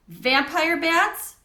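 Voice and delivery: ask, scared of the bats; shaky voice. A narrator's reading. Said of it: "Garth asked in a shaky voice".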